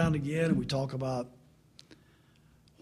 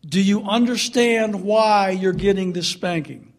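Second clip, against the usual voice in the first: stern father question; 2 semitones higher, 5 dB louder than usual. Retold or imitated. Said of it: "and I'd say".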